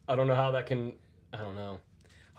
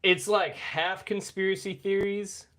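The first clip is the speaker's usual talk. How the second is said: laughing; 7 semitones higher, 5 dB louder, slower than usual. Real, not acted. Laughing through description.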